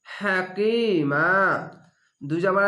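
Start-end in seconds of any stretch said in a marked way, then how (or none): 0.1-1.3 হাকিমা slow, last মা stretched then stopped; Quranic recitation demo. Shown as a demonstration. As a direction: draw out মা in হাকিমা and stop. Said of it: "এক আলিফ টেনে থেমে যাবেন". (মা টেনে থেমে যাওয়া)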